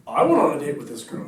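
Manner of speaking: punchy, competitive boast; one-upping. Acted. One-upper countering with same boast.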